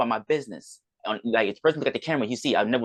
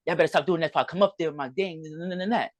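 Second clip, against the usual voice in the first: higher-pitched mock threatening voice; lightly acted, raised-pitch warning; retold threat; 6 semitones higher than usual. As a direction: imitate the roommate threatening over the phone. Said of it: "threatening violence".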